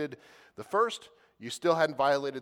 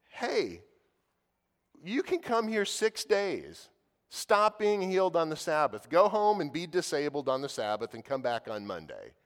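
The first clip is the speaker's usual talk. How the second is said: indignant ruler; 3 semitones higher, 4 dB louder than usual. Retold or imitated. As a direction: play the annoyed synagogue ruler lecturing people. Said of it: "was indignant".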